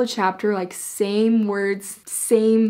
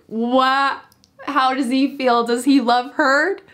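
eager fan questions; 4 semitones higher, 6 dB louder, slower than usual. Retold or imitated. Fans on edge wondering about Jax.

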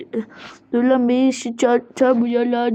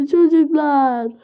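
slow, hammed-up sobs into the word; sob, then moan it out slowly; play-acted sobbing; slower than usual.

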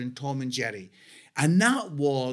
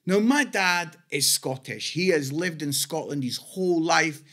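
normal talking voice

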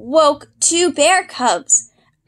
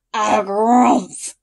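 mild bison bellow. Acted. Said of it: "he bellowed".

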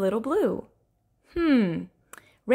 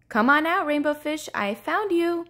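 higher, triumphant calling; excited cry; 6 semitones higher than usual. Acted. Little Blue calling Rainbow Fish out, excited cry. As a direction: call out with proud glee. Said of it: "cried Little Blue".

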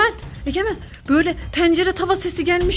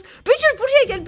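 high, raised call to the cat; 7 semitones higher, 3 dB louder than usual. Real, not acted. Calls the cat higher. (yüksek sesle seslenme)

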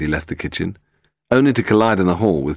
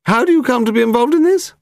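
put-on high, sharp elderly demand; demanding old woman; 6 dB louder than usual. A narrator's reading. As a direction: snap the question like an old dowager. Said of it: "she suddenly demanded".

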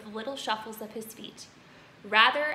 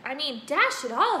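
put-on protesting boy; 5 semitones higher, 7 dB louder than usual.

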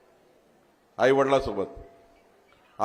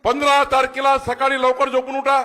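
much higher and louder, hammered home; loud repeat; 8 semitones higher, 5 dB louder than usual. Shown as a demonstration. Politician repeats the voting date to the rally, shouting. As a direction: shout it again so the back rows hear. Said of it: "repeated louder".

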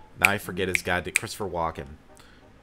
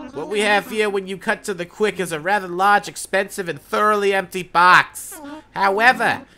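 put-on high, fussy old owl woken from sleep; flustered owl curator, high and loud; voiced sleepy owl; 6 semitones higher, 6 dB louder than usual. Voices the curator reading sign.

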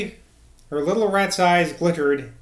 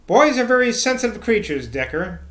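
higher, louder pronouncement; sententious; 6 semitones higher, 4 dB louder than usual. A narrator's reading. Mister Evans pronouncing on boys to Decker, sententious. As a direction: announce it like a moral maxim. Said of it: "announced Mister Evans sententiously".

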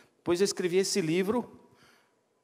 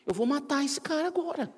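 mock outrage; 10 semitones higher than usual. Pastor's outraged thought.

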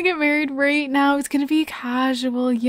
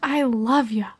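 lightly voiced daughter, a bit higher; sweet daughter; 5 semitones higher, slower than usual. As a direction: play the Sim girl sweetly, barely changed. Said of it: "She's like".

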